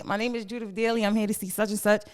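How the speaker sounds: quick, proper introduction; a light touch of posh politeness. Retold or imitated. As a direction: sound very respectable at reception. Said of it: "Put the posh voice on".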